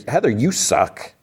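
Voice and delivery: exasperated mock reproach; mock scolding. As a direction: draw it out, scolding an absent character. Narrator scolds the character directly.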